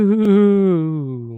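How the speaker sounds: sudden loud boo to scare; startling boo. Acted. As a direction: jump out with a boo. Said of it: "Did I scare you?".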